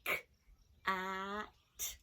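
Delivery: "K, ah, t" each sound said separately; teacher splitting cat into sounds; sounds apart. Shown as a demonstration. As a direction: segment "K, ah, t" sound by sound. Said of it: "Let's say the sounds".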